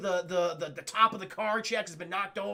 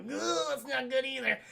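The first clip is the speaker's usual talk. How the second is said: higher, groaning mock concern; Jeff Goldblum impression; 4 semitones higher than usual. Imitating him in the other car, groaning concern. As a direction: groan it out as a worried echo. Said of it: "Jeff Goldblum's like".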